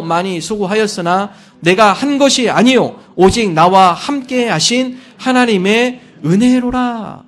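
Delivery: loud, slow, unison scripture reading; reading scripture together. Acted. Congregation reading Corinthians aloud in unison, slow and loud. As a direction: read it out together with weight. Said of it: "함께 한 목소리로 읽습니다".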